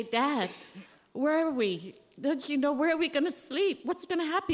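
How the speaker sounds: put-on rising, pleading child's worry; a daughter fretting to Dad about where they'll sleep; anxious child. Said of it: "I have anxiety issues".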